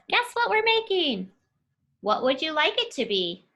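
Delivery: put-on girl teasing her friend, excited; excited guess. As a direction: ask it bright and excited, up high. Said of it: "She says".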